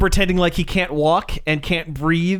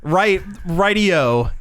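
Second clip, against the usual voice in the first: slow put-on British assent; mock British; 2 semitones higher, much slower than usual. Host joking about bad accents, mock British. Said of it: "mimicking, uh, British culture".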